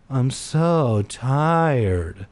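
slow, drawn-out tired moan; a tired, slow groan of words. Acted. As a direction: drag the words out, exhausted. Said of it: "I moaned".

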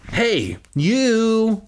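high-pitched acted call; crying out. A narrator's reading. Girl spots teddy on the dresser, crying out. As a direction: call out high, catching someone in the act. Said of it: "Willa cried out".

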